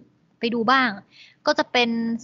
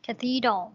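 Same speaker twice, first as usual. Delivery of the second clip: "cathedral" stressed on the second syllable; much slower than usual. Shown as a demonstration. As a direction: lean on the middle syllable of "cathedral". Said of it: "ตรงพยางค์ที่สอง". (เน้นเสียงพยางค์ที่สองของคำว่า "cathedral")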